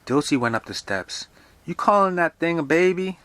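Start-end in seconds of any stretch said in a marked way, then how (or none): 1.6-3.2 high, loud disbelieving question; acted indignant disbelief; incredulous caretaker. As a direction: challenge it loudly, pitched way up. Dilsey challenges Mother in story.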